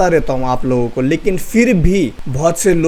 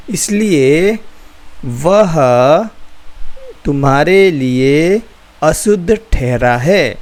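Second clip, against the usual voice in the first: slow careful reading. Shown as a demonstration. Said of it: "एकदम आस्ते आस्ते पढ़ो".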